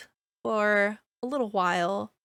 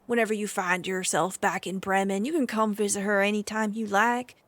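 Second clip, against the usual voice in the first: lightly voiced stable master making an offer; a hint of a haggard stable hand, pleading for the animal; 4 dB louder than usual. Stable master offers a traveler a trade, lightly voiced haggard man. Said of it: "And the man looks to you and says".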